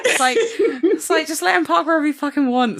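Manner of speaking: high, laughing mock American accent; laughing put-on American accent. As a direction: ham up a bad American accent. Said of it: "that's my American accent".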